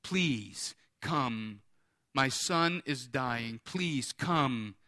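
understated, slow plea of a desperate father; begging. Acted. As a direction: plead gently, weighing each word. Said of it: "begging him".

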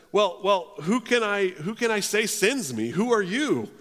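acted-out flustered objector; flustered questioning. Moses acted out questioning God.

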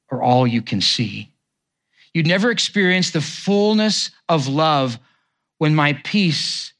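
measured, heartfelt reading of a poem. Acted. Pastor reading a poem on waiting to the congregation, heartfelt.

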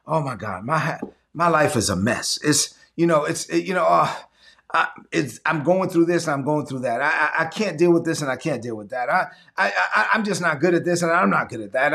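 low, moaning, falling into a mumble; mock whiny complainer. Preacher imitating a congregant moaning about her mess, whiny. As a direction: act out a self-pitying member of the church.

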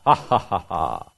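mock booming giant laugh, ha ha ha; a hammed-up villain's laugh read aloud; terrible laugh. Goliath mocking Israel's army, booming laugh. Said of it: "he laughed his terrible laugh".

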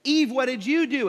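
imitated scolding question; God. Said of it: "turns to Eve and he says".

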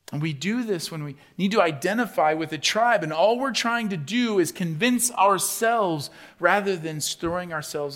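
loud, high, driving sermon voice; fiery preaching. Acted. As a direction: preach it hard to the whole room. Preaching at full force.

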